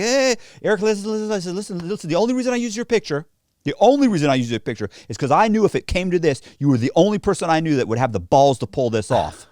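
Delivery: high, urgent acted plea; frantic placating. Man calming a friend ready to swing, frantic high-pitched pleading. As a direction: talk fast and high to head off a punch.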